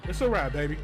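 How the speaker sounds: ordinary delivery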